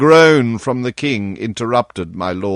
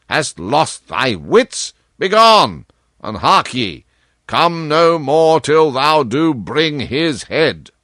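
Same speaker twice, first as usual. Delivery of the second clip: angry king; 3 semitones higher, slower than usual. Acted. King berating the Chancellor for waiting, angry and scornful. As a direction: rage at him and drive him out.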